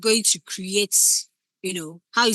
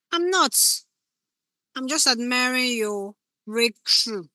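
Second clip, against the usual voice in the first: higher, slower, put-on innocent reply; mock innocence; 4 semitones higher, slower than usual. Shown as a demonstration. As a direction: play it sweetly fake. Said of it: "You can see the difference".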